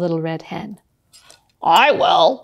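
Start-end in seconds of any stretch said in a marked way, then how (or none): 1.6-2.3 eager pig. Acted. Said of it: "said the pig".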